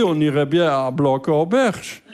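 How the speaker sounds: slow, measured retold proposal; tentative suggestion. Comedian proposes a seaside town to partner, tentative suggestion. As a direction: offer the destination slowly.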